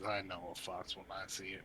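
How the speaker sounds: low menacing. Acted. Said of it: "looks on down and says".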